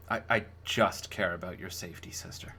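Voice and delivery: whispered. Acted. Brother pleads softly with sister.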